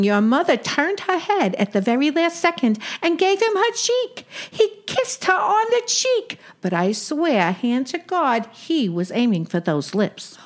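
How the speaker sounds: put-on old Brooklyn aunt with Yiddish lilt; yiddish accent. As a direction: play a wisecracking Jewish aunt. Sadie role continues.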